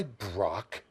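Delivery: drops low and whispers the name Lesnar; reverent hushed name. Shown as a demonstration. Advocate hushing his client's name with awe. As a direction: breathe "Lesnar" out in a low, unvoiced hush. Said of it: "That's why I say his name that way".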